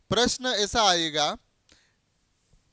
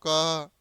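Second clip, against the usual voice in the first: "क" pushed out firmly and held; stress on क; 2 semitones lower, 4 dB louder than usual. Shown as a demonstration. Teacher repeating the stressed letter, "क" said with force. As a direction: lean hard on a drawn "क". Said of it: "ऐसा बोल रहा हूँ".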